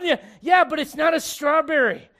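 loud, high preacher's retort; emphatic rebuttal. Real, not acted. Preacher answering the gummy bear objection, loud and insistent. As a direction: fire back at full voice.

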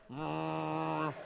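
straining hum. Retold or imitated. Mimes dad stitching his own wound.

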